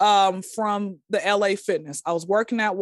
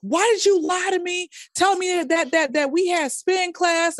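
mock angry accusation; 8 semitones higher than usual. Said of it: "going off on me".

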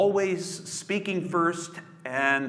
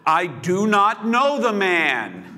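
raised, insistent denial under oath; denying Jesus with an oath, louder; emphatic denial; 6 semitones higher, 7 dB louder than usual. Acted. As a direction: swear it off loudly. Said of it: "Peter denied it with an oath".

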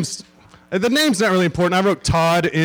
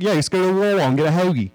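quick mock Philadelphia accent; Philly accent; 3 semitones higher, faster than usual. Comedian mocks Philadelphians in a quick Philly accent. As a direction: rattle it off like a Philly local. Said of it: "That's what they sound like".

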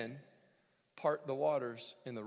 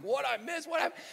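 higher, startled double question; mock bewildered reader; 12 semitones higher, 4 dB louder than usual. Reader hit by the verse, mock bewildered. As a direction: play the dazed reader who missed it.

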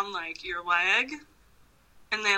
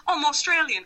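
higher-pitched, badly faked Australian; amateur Australian accent, played up for fun; 5 semitones higher than usual. Shown as a demonstration. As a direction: do a cheerfully terrible Australian accent. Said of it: "like, so bad at it".

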